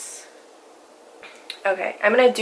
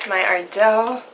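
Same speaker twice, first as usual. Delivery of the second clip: voice crack; 5 dB louder, slower than usual. Real, not acted. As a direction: voice cracking on Ardell. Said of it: "why did my voice crack like that?".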